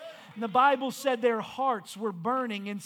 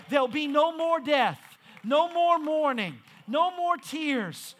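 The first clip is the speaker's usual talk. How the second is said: preaching; 4 dB louder than usual. Acted. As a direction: preach it out to the congregation. Preacher builds to Heaven's promise.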